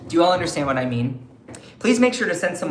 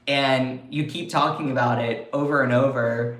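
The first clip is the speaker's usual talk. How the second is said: voicing Canada; 3 semitones lower than usual. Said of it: "Canada is like".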